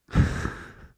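voiceless amused laugh; short real chuckle with no voice. Real, not acted. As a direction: laugh under the breath at it. Laughs at own story.

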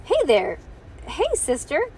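high, coaxing singsong call; calling over. A narrator's reading. Ivy luring toddler sister with a doll, coaxing call. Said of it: "Ivy called".

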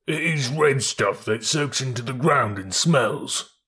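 slow, ponderous ox voice; slow, literal-minded bullock; stolid bullocks. Acted. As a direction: plod through each word like an ox. Bullocks answer slowly.

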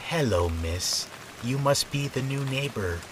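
put-on raspy old woman, worn by smoking; rough, ruined voice of a heavy smoker; damaged smoker's voice. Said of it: "with an extremely damaged voice".

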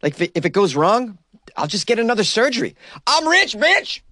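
high mocking quote rising to a shrill "rich, bitch"; mocking Ollie. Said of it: "He says".

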